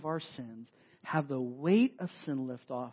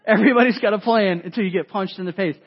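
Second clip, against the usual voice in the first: louder, hammered-home repeat of the line; punchy repeat; 3 semitones higher, 13 dB louder, faster than usual. Real, not acted. Preacher repeating the boxing quote for emphasis, loud and punchy. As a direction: drive the quote home, pace quick.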